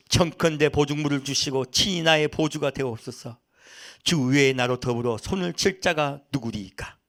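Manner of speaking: steady, measured Bible reading; scripture reading. A narrator's reading. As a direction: read the verses out formally to the congregation. Reads scripture aloud.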